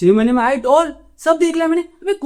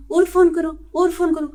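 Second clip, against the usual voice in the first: sarcastic urging; 3 semitones higher than usual. Acted. Mocking phone adverts in rant.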